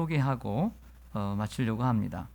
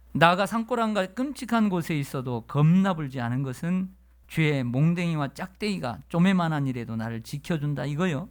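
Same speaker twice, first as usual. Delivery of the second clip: Jeolla dialect; 3 semitones higher than usual. Retold or imitated. Pastor reading the Jeolla dialect psalm to the congregation, in a lively Jeolla accent. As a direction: belt it out like a Jeolla uncle. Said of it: "이번에는 전라도 버전이 있습니다".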